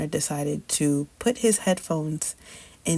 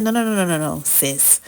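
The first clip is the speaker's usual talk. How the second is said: emphatic denial; 4 dB louder than usual. Retold or imitated. Denying the twin news.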